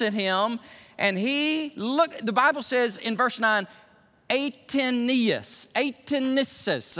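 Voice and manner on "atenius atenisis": "Atenius," then "Atenisis," sounded out slowly; slow, unsure tries at "Atenisis"; tentative pronunciation. Real, not acted. Preacher attempting a Greek word for church, tentative. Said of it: "I can't pronounce it".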